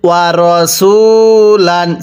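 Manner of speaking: রসুলান with the সি held one beat; রসুলান, short madd on the sin; one alif stretch on sin. Shown as a demonstration. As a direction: stretch the vowel after স in রসুলান by one count. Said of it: "সিনের মধ্যে এক আলিফ টান".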